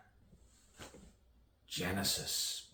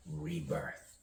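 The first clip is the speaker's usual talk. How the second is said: rebirth leaping far up in pitch; high-pitched echo; 11 semitones higher, 4 dB quieter than usual. Acted. Poet echoing rebirth as two snakes, high-pitched. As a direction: echo the word in a high, lighter voice. Echoed word in a poem.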